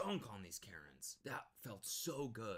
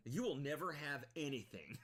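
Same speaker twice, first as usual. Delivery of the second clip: hammed-up threat, slightly higher; mock Karen threat; 5 semitones higher than usual. Streamer mocking the grandma's threat, lightly hammed. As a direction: quote it back with a bit more punch. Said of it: "that's a great quote".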